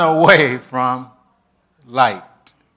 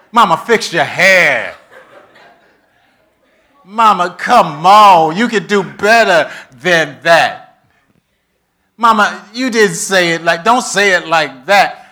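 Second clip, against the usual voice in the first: teasing, laughing scold of mama; a grown daughter picking at mom's looks, then louder; nagging daughter; 5 dB louder than usual. Retold or imitated. Daughter fussing at mama over her hair, laughing.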